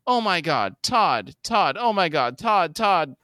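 acted panic in short, high exclamations; frantic yelling. Monique trying to revive Todd, frantic yelling. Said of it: "Monique yells".

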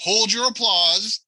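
slow, high mock hush to the crowd; milking the applause. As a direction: savour the fake applause. Host hushing imagined applause.

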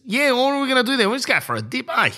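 high mocking Australian voice; Aussie bloke impression. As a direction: send up a laid-back Aussie mate making beach plans. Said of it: "The most blandest conversations".

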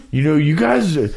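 high imitated caller voice; old country guy voice. Retold caller voice.

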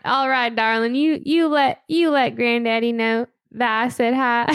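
put-on Southern sweetheart; Southern accent. Co-host saying goodbye in a skit, mock Southern. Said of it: "we go into Southern".

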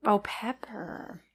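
breathy whispered aside, slowed right down. Real, not acted. Co-host sniffing the Shiraz and finding pepper, whispered. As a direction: whisper it as if catching the scent. Sniffing wine, hushed reaction.

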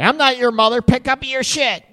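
snapping partner. Retold or imitated. Partner snapping at a messy spouse, mock angry. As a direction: bite the words out, fed up. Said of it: "how many people right away".

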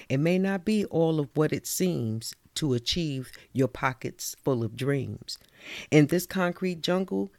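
rhythmic spoken-word poem; measured poetry reading; poem recital. Acted. Recites her own poem.

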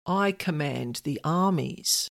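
lightly voiced, proud slow declaration; proud commander. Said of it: "he said quite proudly".

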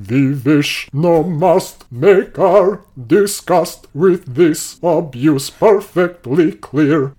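put-on slow, stern Russian-accented recitation. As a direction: intone it like a Soviet delegate. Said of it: "the voice for Calinda Dromaeus".

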